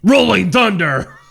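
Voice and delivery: loud, slow arena call; announcer voice. Acted. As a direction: drag it out like a monster truck announcer. Announcing a tractor name.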